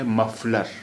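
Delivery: मफलर with a clear f, lips to teeth; correct f in मफलर. Shown as a demonstration. Teacher models मफलर with f. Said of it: "यहाँ फे इस्तेमाल किया गया है मफलर".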